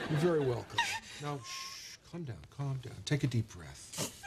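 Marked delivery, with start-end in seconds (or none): 1.2-4.1 hushed, softer calming voice; soothing. Acted. Man calms his sobbing friend Jeannie, soothing. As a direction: settle someone who is crying, easing slower at the end.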